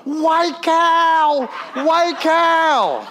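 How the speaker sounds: amazed friend murmuring up high; John's awed words. Retold or imitated. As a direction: echo the friend's stunned whisper-like wonder. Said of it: "all John says is".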